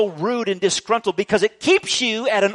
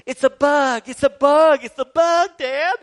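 put-on higher and louder, frantic kid crying out; panicked child; 8 semitones higher, 6 dB louder than usual. Little son running to dad about a bug, high frantic panic. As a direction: imitate a terrified little boy running to his dad. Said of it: "he's acting like".

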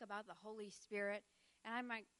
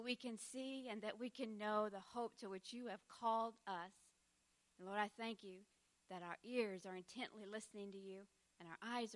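prayer; 3 dB quieter than usual. Acted. Closing prayer before the talk.

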